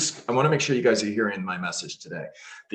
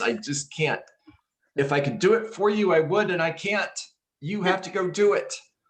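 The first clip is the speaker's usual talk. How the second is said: passionate, pitched-up, fervent insisting tone; 9 semitones higher than usual. Urging the listeners to go get more listings themselves, passionate. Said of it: "hear the passion in my voice".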